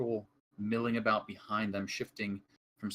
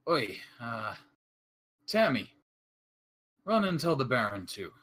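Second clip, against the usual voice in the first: calling out; 3 dB louder than usual. Acted. Guard calls inside.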